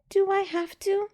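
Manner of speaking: put-on high, slow whiny child voice; reluctant child. A narrator's reading. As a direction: drag it out reluctantly. Girl reluctant to bathe.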